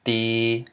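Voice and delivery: "di" held long as "dee" on a level, unraised pitch; low tone. Shown as a demonstration. Teacher models the Lao word for students, low tone on "di". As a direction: keep "di" down and even, drawn out. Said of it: "it's gonna be a low tone".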